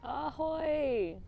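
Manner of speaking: loud sailor greeting; hearty ahoy. Pretend. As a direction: call it out like a pirate. Greeting called out.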